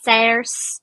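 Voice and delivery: SAOIRSE in an Irish accent, "sairs". Shown as a demonstration. Sounding out a name for a friend, in an Irish accent. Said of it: "really good Irish accent".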